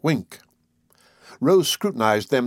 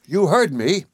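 high, shrill retort; raised pitch, indignant and shrill; 6 semitones higher, slower than usual. A narrator's reading. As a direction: insist shrilly. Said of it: "she said shrilly".

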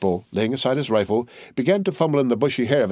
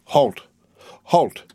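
sharp, louder call of halt; sentry's challenge; 5 semitones higher, 3 dB louder than usual. Acted. Nervous sentry barking at a dark figure, loud challenge. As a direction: stop the stranger cold.

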